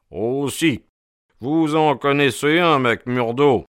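genial, lively character voice; affable. A narrator's reading. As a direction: hail an old acquaintance pleasantly. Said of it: "d'une voix avenante".

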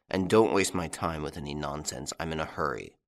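a tired detective losing patience; curt impatient inspector. Acted. Ganimard's voice, impatient.

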